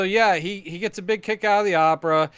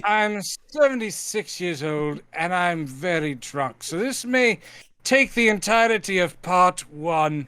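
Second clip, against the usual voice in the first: James Mason. Acted. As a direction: ramble grandly as a tipsy film star. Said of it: "Mason impressions".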